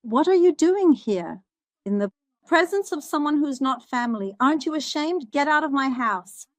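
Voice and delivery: mock-scold a stranger in your yard; retold scolding. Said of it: "So I asked".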